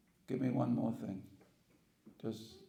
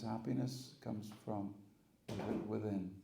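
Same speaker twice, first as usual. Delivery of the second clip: slow emphasis. Shown as a demonstration. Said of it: "The nice story?".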